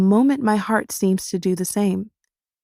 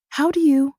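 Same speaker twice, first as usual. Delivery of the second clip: confused, trailing off; 7 semitones higher than usual. A narrator's reading. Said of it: "I trail off, confusion crinkling my brow".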